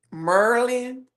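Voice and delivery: Merlin repeated slowly as DMV locals say it; "Merlin" in two run-together syllables, DMV style; DMV pronunciation. Shown as a demonstration. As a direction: demonstrate the local "Merlin", drawn out and rising. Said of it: "just the way they say certain things".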